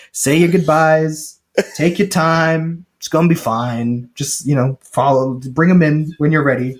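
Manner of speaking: easy, unhurried reassurance, slowed down; calm and casual. Retold or imitated. Brian Cox reassures Franco, calm and casual. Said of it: "'cause he's so calm and casual".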